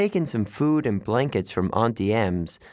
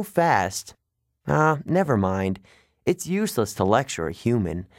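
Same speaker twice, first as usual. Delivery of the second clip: lightly voiced young satyr, higher and bitter; a touch of a satyr's frustration, higher; Grover the satyr; 4 semitones higher than usual.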